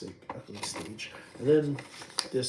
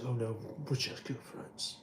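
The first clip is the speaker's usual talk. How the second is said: Paul impression; 5 dB quieter than usual. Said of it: "you say".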